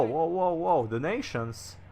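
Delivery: normal talking voice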